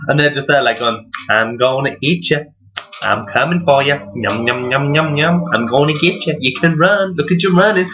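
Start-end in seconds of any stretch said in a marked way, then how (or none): 1.3-7.9 a hint of a taunting predator; lightly voiced tiger. Tiger jogging after its prey, lightly voiced playful taunting. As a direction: toy with your prey, munching on the yums.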